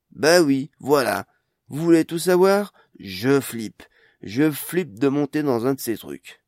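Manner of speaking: loud, high, flustered confession; woman admitting her fear of flying, loud and agitated; panicked outburst. Acted. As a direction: blurt it out, half panicking, half defiant. She finally bursts out, panicking.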